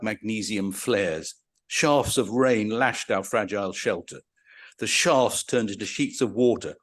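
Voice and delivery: vivid storytelling read with a lifted voice; dramatic reading. Acted. Lecturer reading a railway prisoner's memoir aloud, vivid and dramatic. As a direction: paint the storm and the hunger for them. Reads jungle memoir passage.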